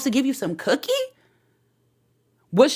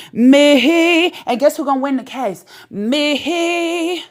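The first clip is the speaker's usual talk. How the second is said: proud boast; 3 semitones higher than usual. Real, not acted. Boasting refrain answering own questions.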